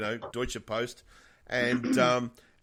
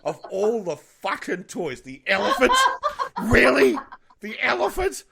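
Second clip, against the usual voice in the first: higher and louder, laughing in disbelief; mock-outraged aunt, building to a laughing shriek; incredulous outrage; 8 semitones higher, 8 dB louder than usual. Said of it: "my sister was always like".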